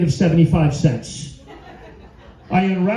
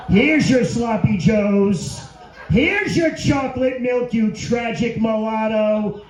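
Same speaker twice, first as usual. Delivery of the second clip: lunch lady voice; much slower than usual. Retold or imitated. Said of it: "the lunch lady at school".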